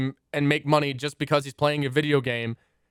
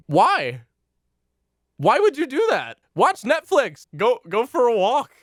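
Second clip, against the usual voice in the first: higher, louder exasperated pleading; 8 semitones higher, 4 dB louder than usual. Real, not acted. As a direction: throw up your hands in frustration. Exasperated outburst.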